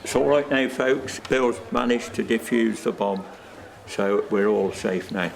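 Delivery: low, softening all-clear; reassuring. Acted. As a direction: reassure the crowd that danger has passed. Man announces that danger is over.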